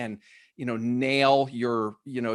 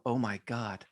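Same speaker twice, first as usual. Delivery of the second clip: retold low mutter, softer; under his breath; 4 semitones lower, 7 dB quieter than usual. Recounting his reaction to agents' five-second callback goal, under his breath. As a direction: mutter it quietly to yourself in mock disbelief. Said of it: "hear me under my breath go".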